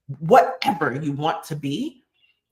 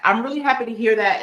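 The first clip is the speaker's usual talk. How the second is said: higher and brighter, leaning on happy; excited; 5 semitones higher, 4 dB louder, faster than usual. Real, not acted. Host repeats thanks to a viewer, now excited. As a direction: say it again with real delight, a bit louder. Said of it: "I, I'm really happy to hear that".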